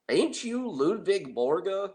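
high, slow, hammed-up Southern drawl from a young woman; a deliberately terrible Southern accent, stretched out; bad Southern accent. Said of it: "I do terrible accents, but I'm doing my best".

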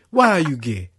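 imitating the blunt interviewer; loud imitation of the famous question; mock interviewer voice. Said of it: "the first question".

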